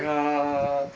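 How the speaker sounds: long, droning mock zombie moan; imitated zombie groan. Zombified friend shrugging off the hose, mock groaning.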